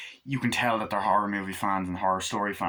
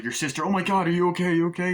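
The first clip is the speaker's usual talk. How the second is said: worried fuss; 8 semitones higher, 4 dB louder, faster than usual. Retold or imitated. Guy rushes to sister.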